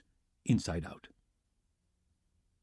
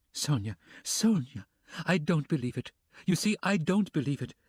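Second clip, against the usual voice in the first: cried; 5 semitones higher than usual. Acted. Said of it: "she cried in the face".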